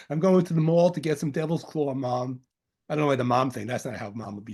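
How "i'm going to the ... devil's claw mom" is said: playful, lightly put-on Long Island accent. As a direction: ham up a little Long Island twang. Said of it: "That's my Long Island accent coming out of me".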